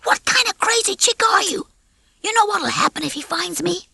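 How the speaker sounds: lightly voiced brash rooster, rattled; a slick rooster getting nervous; a hint of a fast-talking rooster, worried; cocky rooster. Rocky's voiced lines.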